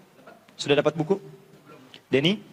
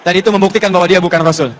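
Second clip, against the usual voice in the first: laughing; 8 dB louder, faster than usual. Real, not acted. Joking to the audience.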